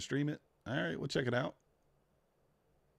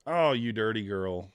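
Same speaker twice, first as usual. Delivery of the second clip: mock scolding; 3 dB louder than usual. Teasing repeat, drawn out.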